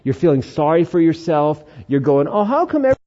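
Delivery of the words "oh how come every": whiny voice. Retold or imitated. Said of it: "the whiny voice".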